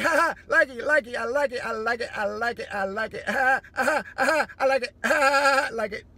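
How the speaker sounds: loud laughing chant of I like it; laughing mock fan. People cheering couples slapping with purses, laughing loudly. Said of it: "people are like".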